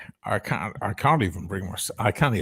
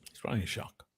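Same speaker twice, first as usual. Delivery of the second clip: whisper; 13 dB quieter, faster than usual. Real, not acted. Quiet aside about friend.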